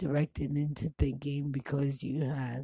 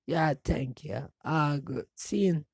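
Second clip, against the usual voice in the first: put-on Jamaican accent; 4 dB louder than usual. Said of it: "pulled out the Jamaican accent".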